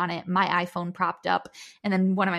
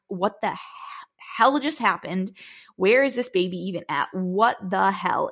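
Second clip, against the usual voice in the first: dazed disbelief; 3 dB louder than usual. Retold or imitated. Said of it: "dazed and confused".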